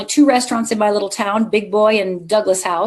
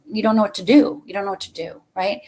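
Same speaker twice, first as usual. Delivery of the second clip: ordinary talk, nothing marked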